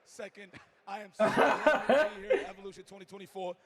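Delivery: rough, worn-out voice; hoarse from yelling. Real, not acted. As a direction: voice shot from cheering all week. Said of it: "my voice is a little shot".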